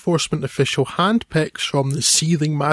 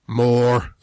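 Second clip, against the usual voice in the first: villain's one-word reply; 2 semitones lower than usual. Retold or imitated. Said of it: "he simply replies".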